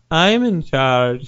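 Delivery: very slow, drawn-out claim; mock Tommy Wiseau. Tommy Wiseau slowly claiming charge to the worker. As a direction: draw it out like Tommy. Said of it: "Tommy was like".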